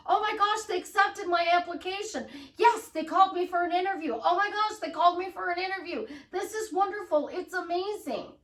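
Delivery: high, bright gushing over good news; excited gush. Pretend. Excited gush over the job interview call. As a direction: squeal about being called for an interview.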